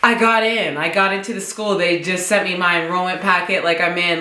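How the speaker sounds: quick, breaking the big news; retold excitement, hurried; excited. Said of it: "I'm so excited".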